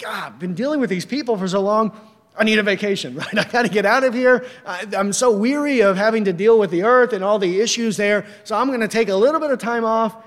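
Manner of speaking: mock weary God. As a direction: play God as a tired worker begging for a vacation. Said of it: "he's like".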